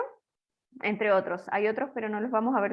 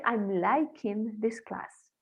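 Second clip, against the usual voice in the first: wrong example; much slower than usual. Shown as a demonstration. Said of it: "yo no puedo decir".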